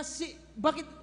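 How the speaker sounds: mock furious owner telling them off; angry owner. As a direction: scold like an angry property owner. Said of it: "Galit na galit siya".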